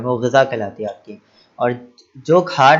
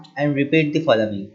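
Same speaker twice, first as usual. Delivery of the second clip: slow model reading; much slower than usual. Shown as a demonstration. Teacher reading the instruction aloud for children, very slow and clear. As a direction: Read and repeat the following, read very slowly and clearly, word by word. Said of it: "उसे repeat करें".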